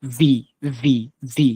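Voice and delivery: vibrate the start of each "ভি"; "ভি" with a trembling teeth-on-lip v; buzzing V. Shown as a demonstration. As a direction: drill "ভি" with a humming onset. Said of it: "একটু কাপার মতো শব্দ".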